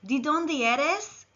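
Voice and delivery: slow "¿De dónde eres?" with rising tune on dónde; model Spanish phrase. Shown as a demonstration. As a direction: say "¿De dónde eres?" slowly for learners. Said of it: "Repeat after me".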